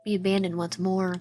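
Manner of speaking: lightly voiced worried confession; subdued, understated fear of being abandoned; Noah. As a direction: admit being lost, with only a touch of fear. Plays scared Noah confessing.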